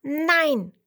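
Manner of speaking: loud, high firm no. A narrator's reading. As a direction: shout the no out clearly. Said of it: "Er sagt laut".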